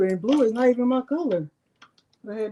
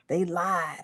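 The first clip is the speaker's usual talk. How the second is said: whispered aside; 5 semitones lower, 6 dB quieter than usual. Pretend. Whispered punchline after "they said.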